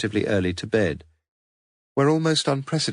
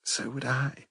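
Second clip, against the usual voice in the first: in a whisper; 5 semitones higher, 7 dB quieter than usual. A narrator's reading. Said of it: "she lied in a whisper".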